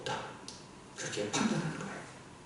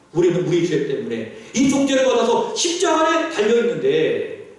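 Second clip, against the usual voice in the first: mild preacher's scolding, building higher before dropping at the end; acted rebuke; 3 semitones higher than usual. Repentant robber to the other robber on the cross, rebuking. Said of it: "꾸짖어 이야기하는 겁니다".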